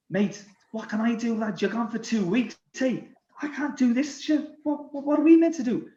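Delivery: high-pitched exasperated pleading; exasperated teammate. Retold or imitated. Cookie answers the worried French teammate, high-pitched exasperation.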